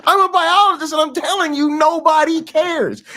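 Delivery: high, loud, fast insistence; emphatic exasperation. Real, not acted. Biologist telling viewers nobody cares, loud and emphatic. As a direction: hammer the point home. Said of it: "continues outburst".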